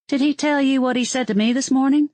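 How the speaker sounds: indignant. Acted. Narrator confronts Roger, indignant.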